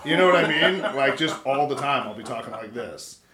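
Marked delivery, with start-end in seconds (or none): 2.1-3.2 low, quiet register; future deep voice. Shown as a demonstration. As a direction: drop the voice deep and soft. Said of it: "my voice is just slowly dropping octaves".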